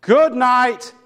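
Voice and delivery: mild mock yell, high at first and easing down; imitated yelled farewell. Minister finishes his litany to the corpse, yelling out. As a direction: call out a farewell like a fervent preacher. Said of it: "he yells out".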